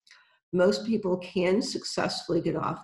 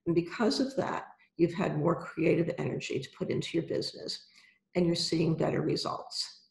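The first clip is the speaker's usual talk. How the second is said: calm guided visualization, unhurried; right in your ear. Acted. Guided visualization with eyes closed.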